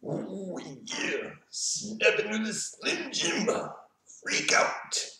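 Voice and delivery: high, strained wrestler impression; strangled, slow showman's voice; Macho Man. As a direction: draw it out like an over-the-top wrestling promo. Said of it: "What would Macho Man".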